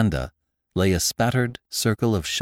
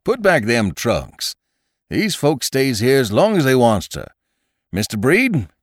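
put-on gruff old landlord; 4 semitones higher, 5 dB louder than usual. A narrator's reading. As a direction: lay down the law, then soften. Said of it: "commanded Mister Jacobus".

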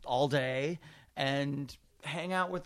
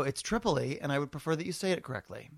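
mock haughty correction; 4 dB quieter, faster than usual. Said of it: "And I go".

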